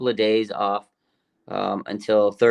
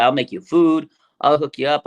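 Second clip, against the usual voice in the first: imitating mom, higher and louder; eager mom; 4 semitones higher, 5 dB louder than usual. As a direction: bribe him with food like an eager mother. Mom coaxing son to visit.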